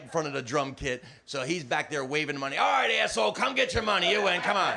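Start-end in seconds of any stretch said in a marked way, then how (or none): 2.6-4.7 high, loud imitated yell; acted pleading holler, easing at the end; exasperated calling out. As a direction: shout to someone across a noisy room. Owner frantically calls comic off stage.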